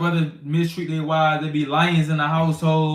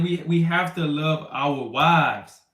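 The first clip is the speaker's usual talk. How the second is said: slow, deliberate we have to love our wives; slow emphasis; slower than usual. Shown as a demonstration. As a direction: lean on every word, slowly. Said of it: "repeats the point slowly".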